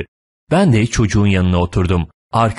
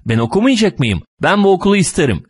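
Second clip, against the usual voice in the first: put-on higher, quickening childish demand; insistent child; 10 semitones higher, faster than usual. A narrator's reading. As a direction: dig in stubbornly like a small boy. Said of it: "diye tutturuyor".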